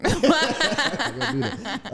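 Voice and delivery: high, loud, laughing words; laughing refusal. Real, not acted. Laughs off being asked age.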